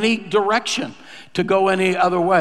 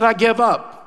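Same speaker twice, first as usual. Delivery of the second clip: higher, insistent surrender; emphatic repeat; 5 semitones higher than usual. Retold or imitated. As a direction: say it again with force, pitched up. Repeats it after pastor's "What?.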